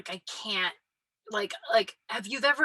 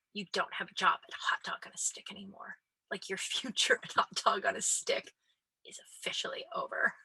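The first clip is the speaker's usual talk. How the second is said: hushed mock-dramatic firing; mock dramatic whisper; 3 dB quieter than usual. Teen boss firing her over the hat, mock-dramatic whisper. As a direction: whisper it like a grave verdict, half joking. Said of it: "something dramatic like that".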